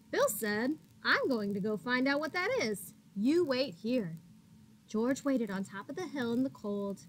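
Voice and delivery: bright, lively picture-book reading; animated storybook narration; reading to children. A narrator's reading. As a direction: read it like storytime for little ones. Reads picture book to kids.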